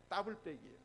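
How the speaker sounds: 더블백 said "따불백", tense tt at the start. Shown as a demonstration. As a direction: hit 더블백 with a hardened "tta" onset. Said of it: "발음을 강하게 하니까". (더블백을 된소리 "따불백"으로 발음)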